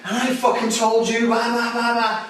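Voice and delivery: high, aggressive mock rant; worked-up ranting. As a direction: imitate someone escalating into blustering threats. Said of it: "working their way up here going".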